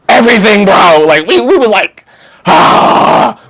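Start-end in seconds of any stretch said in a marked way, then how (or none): 2.4-3.4 mock full-energy "ah". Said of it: "that energy didn't hold true".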